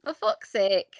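put-on even, careful copy of the accent; imitated Northern English accent. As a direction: echo the phrase in Northern English. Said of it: "Say it how you think it should be said".

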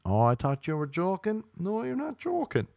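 rising to a high squeak; high-pitched acted realisation; dawning alarm. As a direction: climb high as it sinks in.

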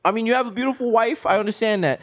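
hammed-up Jewish neighbor; conceding politely in a put-on Jewish accent. Neighbor concedes a point to the entertainer, Jewish accent. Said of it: "doing a Jewish accent".

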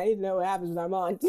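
excited. Real, not acted. Excited fan outburst.

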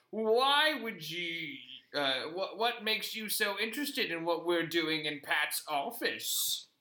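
slow, a hint of a posh old puppet; a trace of the frail puppet voice; lightly voiced posh mole. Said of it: "and I say".

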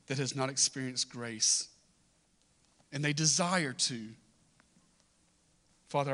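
measured prayer with long pauses between phrases; public prayer. Real, not acted. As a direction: lead the congregation in earnest prayer. Leads the congregation in prayer.

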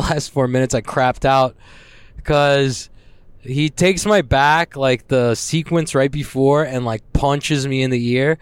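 ordinary delivery

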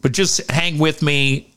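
talking with a packed, blocked nose. Real, not acted. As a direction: speak through a stuffed, blocked nose. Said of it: "my nose is packed 'cause I had surgery".

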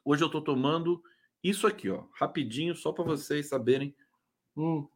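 talking between sips; words round a sip of drink; while sipping a drink. Real, not acted. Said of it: "Deixa eu tomar um gole da minha".

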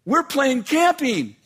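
put-on high, slow little-kid voice with a laugh; proud small child explaining the game. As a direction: kids telling dad they're playing camping. Kids explain their game.

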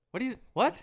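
loud, high puzzled "what"; not hearing. Retold or imitated. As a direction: call out like you can't hear over noise. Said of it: "He's like".

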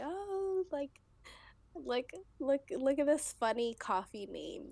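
excited dreamer. Pretend.

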